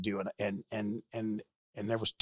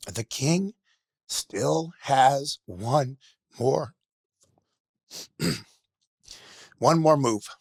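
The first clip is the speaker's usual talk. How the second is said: slow, raised cry with heavy pauses; emotional yell; 5 semitones higher, 5 dB louder, much slower than usual. Retold or imitated. Guest retells the chess champion yelling out, emotional slow yell. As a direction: call it out high and loud, word by word. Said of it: "he yells out".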